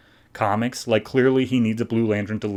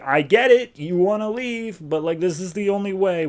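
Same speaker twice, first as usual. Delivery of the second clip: put-on Atrocitus voice; 9 semitones higher than usual. Atrocitus soothing the frightened Butcher.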